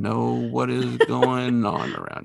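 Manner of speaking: slow, drawn-out bewildered boss; Vincenzo impression. Boss left behind after Kolchak walks out, comically bewildered. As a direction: stretch it into a comic wail of helplessness. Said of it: "it's a good impression of her".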